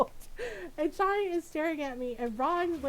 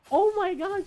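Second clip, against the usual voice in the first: high, loud, cackling oh my God; cackling exclaim; 6 semitones higher, 6 dB louder than usual. Retold or imitated. Friend cackling at the burnt towel, high and loud. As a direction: shriek it through laughter. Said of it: "her friend is just cackling".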